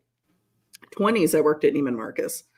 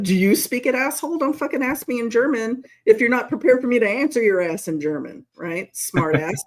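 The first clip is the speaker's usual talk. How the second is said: mock indignant rant; 3 semitones higher than usual.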